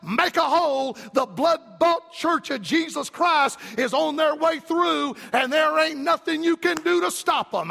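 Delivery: rally the angels like a commander clearing a path; Michael's battle cry. Retold or imitated. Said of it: "as if Michael's gonna be saying".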